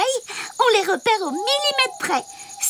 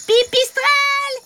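higher, announced like a pilot; pilot command; 5 semitones higher than usual. Acted. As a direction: call the takeoff. Bat orders takeoff.

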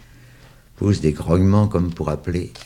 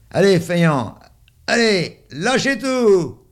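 high, loud, drawn-out giving up; exasperated shout; 14 semitones higher, 5 dB louder, slower than usual. A narrator's reading. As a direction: shout it at the lazy ones, slowly. Kid gives up on the rope.

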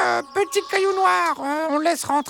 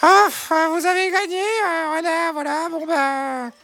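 reluctant hen, sinking in pitch; sighing. Acted. Hen concedes the vote to the fox, sighing. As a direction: sigh it out, giving in. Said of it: "Bernadette soupira".

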